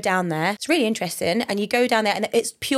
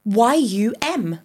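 slow, higher-pitched letter-by-letter correction; emphatic spelling out; 4 semitones higher, slower than usual. Shown as a demonstration. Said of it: "you're saying it like P O I".

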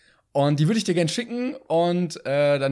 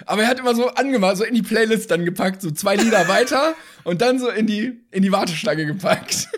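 laughing; 5 semitones higher, 4 dB louder than usual. Real, not acted. Laughing retelling.

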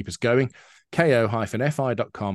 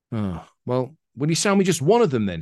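high, louder pleading landlord; 4 semitones higher, 4 dB louder than usual. Acted. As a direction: beg the bloke, pitched up.

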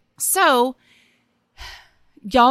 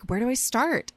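a touch of snippy annoyance; mildly irritated question; antagonistic; 3 semitones higher than usual. Shown as a demonstration. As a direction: ask it with a bit of an edge. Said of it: "I said it with antagonism".

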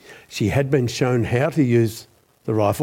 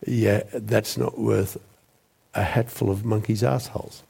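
sulky dismissal. Retold or imitated. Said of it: "very sulky and very, very silent".

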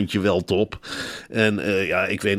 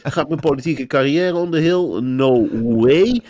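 higher-pitched mock inner monologue; brisk self-questioning; 7 semitones higher than usual. Politician checking her career plans, brisk mock self-questioning. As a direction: tick off questions in a raised, acted voice.

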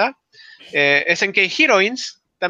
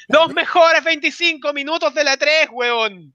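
excited; 5 semitones higher than usual. Real, not acted. Hyped about Smash.

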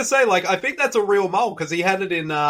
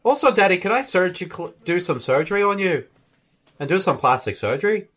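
put-on Irish accent. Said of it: "I have a better Irish accent than you".

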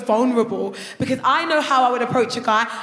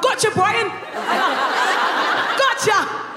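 mock Pokemon catch; 5 semitones higher than usual.

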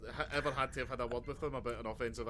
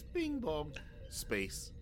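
mock intercom chime; 3 semitones higher, 4 dB quieter, much slower than usual. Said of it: "all you hear is".

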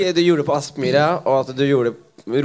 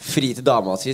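ordinary delivery

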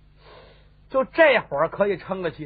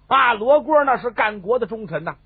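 high, loud string of orders; agitated elderly matriarch giving commands; frantic urgency; 6 semitones higher, 4 dB louder than usual. A narrator's reading. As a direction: order the servants to hurry at once. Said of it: "老太太后头急了".

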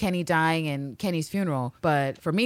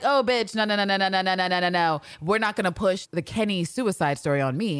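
mock indignant; 2 semitones higher than usual.

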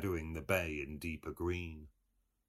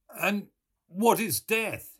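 much higher, slow and louder, theatrical; Buck Mulligan voice; 10 dB louder than usual. A narrator's reading. Mulligan lecturing Stephen on death, theatrical. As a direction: lean into the question like a showman.

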